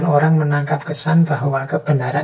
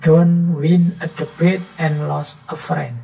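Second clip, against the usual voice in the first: slow, louder English saying; quoted maxim; 5 dB louder, slower than usual. Retold or imitated. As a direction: set the quote apart, slowly. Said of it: "Makanya ada quote".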